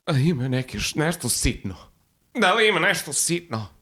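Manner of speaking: high pleading beggar asking for change; beggar woman's plea. Retold or imitated. Retold beggar woman pleading with him in Belgrade cafe, high pleading. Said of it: "and she says".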